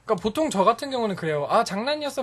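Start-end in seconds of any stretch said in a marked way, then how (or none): 1.5-2.2 cutesy apology. Retold or imitated. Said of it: "하면서 막 애교 피우죠".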